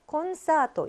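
콘사토 with n given its own beat; even beats. Shown as a demonstration. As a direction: pronounce 콘사토 in measured beats. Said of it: "이렇게 읽어줘야 된다".

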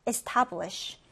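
establish with the stress on TAB; second-syllable stress. Shown as a demonstration. Teacher modelling establish for learners, second-syllable stress. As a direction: put the weight on the middle syllable of establish. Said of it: "이번엔 두 번째 음절 강세를 두고요".

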